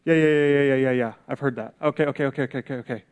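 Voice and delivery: dismissive brush-off. Retold or imitated. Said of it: "to go".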